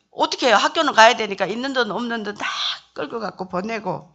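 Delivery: ordinary talk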